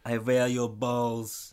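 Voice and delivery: very slow action-hero voice; deliberate, drawn-out boast; Schwarzenegger. Acted. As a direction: stretch every word like a Terminator. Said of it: "you Arnold Schwarzenegger".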